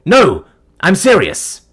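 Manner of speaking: slow, loud, deadly serious; emphatic insistence. Acted. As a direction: lean hard on every word. Sean insists.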